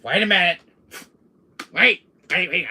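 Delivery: loud, high urgent interruption. Acted. Villain spotting something on screen, urgent. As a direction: cut in sharply and high. Sudden alarm at discovery.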